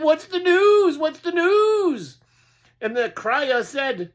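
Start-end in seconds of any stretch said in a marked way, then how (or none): 0.0-2.2 high, loud eager cry; excited pigs calling. Acted. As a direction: pigs clamouring for news. Pigs call out to crier.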